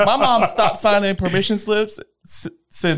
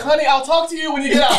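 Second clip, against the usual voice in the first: higher, fast, falsely sweet mom; sugary mock mom; 9 semitones higher, faster than usual. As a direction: lure them in with fake sweetness. Mom's sweet threat retold.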